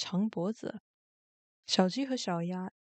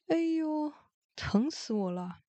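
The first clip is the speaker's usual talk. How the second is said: high drawn-out groans, easing on the last words; put-on bellyache cries; feigned pain; 6 semitones higher than usual. A narrator's reading. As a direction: wail as if your belly hurts. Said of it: "又抱住肚子嚷嚷".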